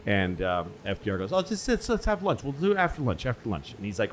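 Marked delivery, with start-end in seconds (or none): 1.3-3.7 breezy, high dismissive FDR; mock casual president putting off his ally; airy FDR brush-off. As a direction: wave it off lightly, pitched up. FDR voiced brushing off Churchill.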